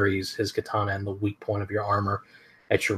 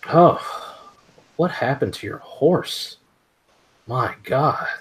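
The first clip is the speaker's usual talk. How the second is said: higher, put-on voice of a smirking ronin; mocking ronin; 5 semitones higher, slower than usual. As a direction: sneer at the fallen warrior, pitched high. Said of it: "He just sort of smirks and then looks down and goes".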